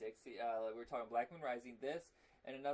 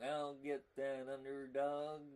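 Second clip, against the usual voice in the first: villain voice from Underdog; slower than usual. Retold or imitated. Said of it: "doing the voices from Underdog".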